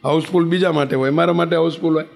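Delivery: haughty mock reply, stress on મારા; proud mock retort, stressing બીજા and મારા. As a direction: mimic a proud old woman brushing off the rule. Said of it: "તો એ પાછા વટમાં".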